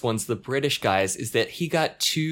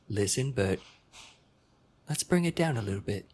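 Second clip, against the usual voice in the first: posh Queen's English; 3 semitones lower, 7 dB quieter than usual. Retold or imitated. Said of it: "very sort of posh accent, this sort of Queen's English".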